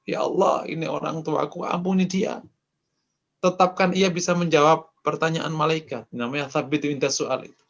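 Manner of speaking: a touch of crying, pleading to God; mildly sobbing plea for a dead parent; tearful prayer. Acted. Child praying for a dead parent, lightly tearful pleading. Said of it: "anaknya nangis-nangis".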